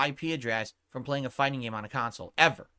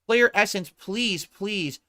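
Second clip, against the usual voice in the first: louder, higher name shouted at a chatter; single him out before the ban; angry callout; 4 semitones higher, 3 dB louder, slower than usual. Real, not acted. Banning a chatter.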